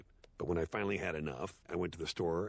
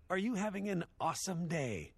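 imitating the counter girl, pitched way up; exaggerated perky customer-service chirp; 10 semitones higher than usual. Shown as a demonstration. Quoting the fast-food girl's greeting, mock chirpy. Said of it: "the girl behind the counter said".

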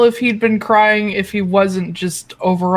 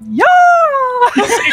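high yelled battle cry; hammed-up warrior yell, pitched very high; distant war cry; 4 dB louder than usual. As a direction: howl it like a charge at dawn. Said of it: "in the distance, you hear".

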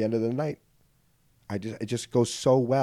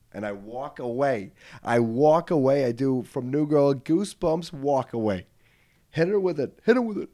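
hammed-up dramatic exit; 3 semitones higher than usual. Dramatic exit move, building.

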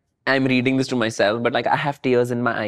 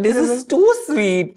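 touched squeal; 11 semitones higher, 4 dB louder, slower than usual. Real, not acted. Touched by a fan message.

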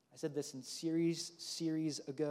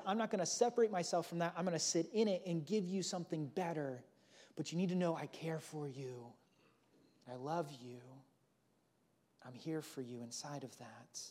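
tender reassurance. Pretend. God speaking comfort to us.

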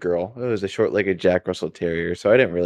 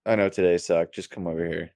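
tender to dog; 3 dB quieter than usual. Retold or imitated. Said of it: "So it's like".

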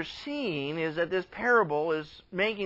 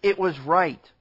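slow, measured fatherly reply; lightly voiced father, weighing each phrase; patient father; 2 semitones lower, 4 dB louder, slower than usual. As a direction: reassure your son slowly and firmly. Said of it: "the father responds and he said to him".

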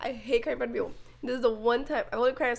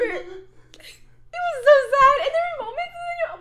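breathless laughing whisper, pitched high; 11 semitones higher, 5 dB louder, slower than usual. Real, not acted. Recalling crying at Marley and Me, laughing whisper. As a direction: laugh it out under your breath.

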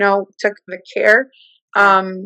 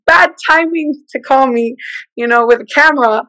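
higher, fretting aside; exasperated surprise; 4 semitones higher than usual. Retold or imitated. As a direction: groan at the bad timing. Mother calls at bad moment.

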